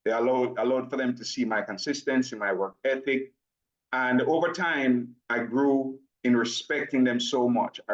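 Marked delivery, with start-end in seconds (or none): 3.9-7.8 slow, measured explanation. Real, not acted. Presenter slowing down for Nigerian brothers and sisters, deliberate slow pace. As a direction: take it slowly so listeners can follow. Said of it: "so I'll slow it down".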